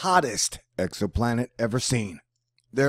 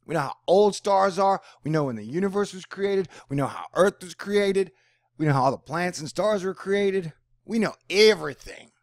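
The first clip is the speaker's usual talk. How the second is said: high, loud smug scientists; arrogant know-it-all; 6 semitones higher, 5 dB louder than usual. Retold or imitated. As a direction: brag like you know it all. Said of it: "and they were like".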